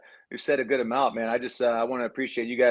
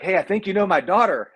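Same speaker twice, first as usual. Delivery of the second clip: friendly highway guy; 8 semitones higher, 5 dB louder than usual. Retold or imitated. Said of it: "They're like".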